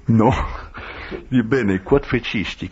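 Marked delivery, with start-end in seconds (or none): 1.5-2.7 "Bene, quod fecisti?" spoken slowly, each word separated: bene, quod, fecisti; deliberate slow repetition of "Bene, quod fecisti?"; slow careful Latin. Shown as a demonstration. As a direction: spell out the Latin question slowly for the listener. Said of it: "me demande-t-il en latin".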